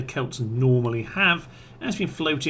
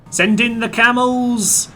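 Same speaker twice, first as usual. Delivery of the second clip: grand command; 10 semitones higher, 6 dB louder, slower than usual. Acted. Grand order to send camels.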